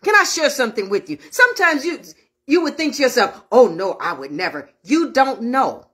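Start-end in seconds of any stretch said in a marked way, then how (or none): 3.5-4.7 self-assured protest. Retold or imitated.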